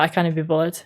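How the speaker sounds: CAN'T loosened into a casual "cannae"; lazy contraction. Shown as a demonstration. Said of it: "I normally say it for that".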